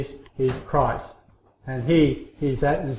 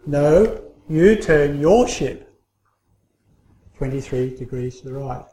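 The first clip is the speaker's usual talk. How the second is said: more irritated. Retold or imitated. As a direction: lean on it a little, losing patience. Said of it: "got a little bit more irritated".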